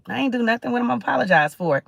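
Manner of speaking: mildly ornery, rushing the last question. Acted. Refusing to apologize to someone who feels wronged, ornery. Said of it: "when you get real ornery".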